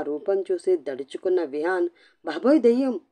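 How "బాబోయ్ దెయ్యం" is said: higher, louder startled cry of fright; frightened yell. A narrator's reading. Half-asleep husband sees a blanketed shape, frightened yell. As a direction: yelp it like you just saw a ghost. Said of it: "అంటూ అరుస్తూ".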